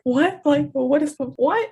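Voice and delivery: reliving her stunned reaction to the guy's comment; shocked what. Retold or imitated. Guy calls her easy, she answers in loud shock. Shocked reply to crude remark.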